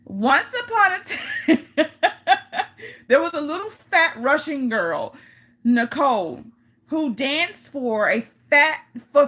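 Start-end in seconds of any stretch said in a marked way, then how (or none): 0.1-5.2 story line broken by giggles, slowed; trying to read while laughing. Real, not acted. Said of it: "Let me compose myself".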